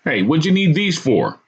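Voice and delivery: high-pitched whiny question; whining. A narrator's reading. Cop pointing at nunchucks to owner, whining. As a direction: whine it as a complaint. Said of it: "he whined".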